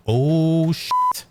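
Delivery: high, drawn-out "uh-oh" voice; mock dread. Teen realizing his dad knows, high mock dread. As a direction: let it jump up high in mock panic. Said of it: "like, in the voice, like".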